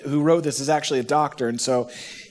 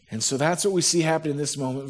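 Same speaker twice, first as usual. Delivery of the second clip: ordinary talk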